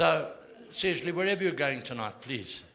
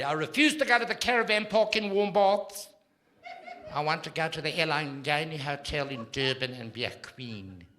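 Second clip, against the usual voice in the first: mother putting her foot down; 2 semitones higher than usual. Retold or imitated. Comic telling his mother's demand to go to Durban, mock grand. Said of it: "she put her foot down".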